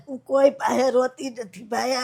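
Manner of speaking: real tears breaking through the words; saying she doesn't cry while crying. Real, not acted. Grieving mother tells interviewers of her son, crying.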